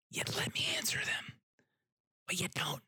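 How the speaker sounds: hushed, pointed aside; whispered aside. Real, not acted. Griping about the woman's questions, whispered. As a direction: whisper it under your breath. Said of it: "whispered aside".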